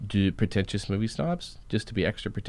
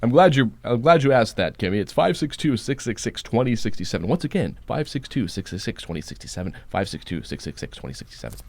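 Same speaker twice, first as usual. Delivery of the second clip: loud, booming announcer, fading off; 3 semitones higher, 4 dB louder than usual. Pretend. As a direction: boom the number out like an announcer. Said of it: "repeat that number again in your announcer voice".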